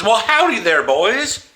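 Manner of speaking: hammed-up Texas cowboy greeting; mock Texan accent, loud and high; Texan howdy. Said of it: "the fact that she says".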